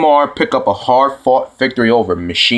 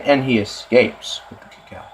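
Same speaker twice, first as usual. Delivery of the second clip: mocking commentator; 5 dB quieter than usual. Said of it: "Stop saying".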